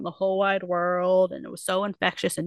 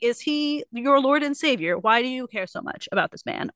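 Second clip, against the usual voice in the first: mock exasperation; 4 semitones higher than usual. Reader challenges the toasting dad, mock exasperated. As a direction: challenge him in playful disbelief.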